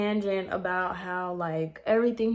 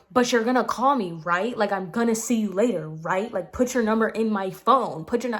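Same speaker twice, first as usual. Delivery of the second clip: pushy insistence; 2 semitones higher, 5 dB louder than usual. Retold or imitated. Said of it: "he was so aggressive".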